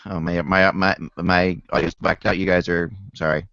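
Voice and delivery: audio crackling and breaking up; crackling distorted mic. Real, not acted. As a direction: voice through a crackling connection. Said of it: "your audio is crackling up".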